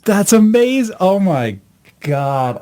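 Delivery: stunned high gasp of recognition; high, loud disbelief; surprised. Real, not acted. Stunned at recognizing old colleague.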